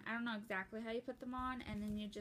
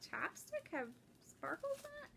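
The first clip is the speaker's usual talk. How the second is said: puzzled self-quote; 6 semitones higher, 5 dB quieter than usual. Retold or imitated. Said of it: "'Cause I was like".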